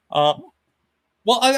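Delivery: ordinary talk, nothing marked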